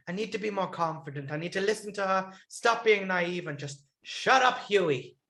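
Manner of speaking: lightly put-on impression of a self-doubting contestant; Huey. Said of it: "I love your Huey impression".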